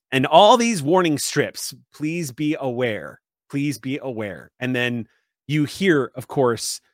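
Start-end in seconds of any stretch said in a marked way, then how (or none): 1.9-4.5 announcement voice. Acted. Recorded warning strips repeating.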